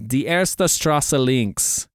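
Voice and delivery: Die erste Straße links, spoken slowly word by word in German; slow careful German. Shown as a demonstration. Reading out a German phrase to the co-host, slowly and carefully. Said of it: "I hope it's something like".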